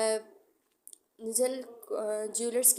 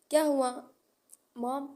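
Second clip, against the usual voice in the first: startled; 3 semitones higher, 8 dB louder than usual. A narrator's reading. Son startled awake.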